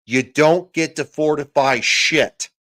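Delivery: slow, loud, furious emphasis; angry rant. Real, not acted. Ranting at critics, slow and loud fury. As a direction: spit each word out.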